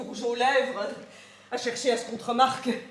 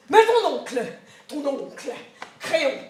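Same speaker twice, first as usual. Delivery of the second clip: plus fort sur Mais, ton oncle répété, Créon appuyé; menace; 5 dB louder than usual. Acted. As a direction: menacer la petite avec l'oncle. Menace de la nourrice. (la nourrice menace avec Créon, sévère)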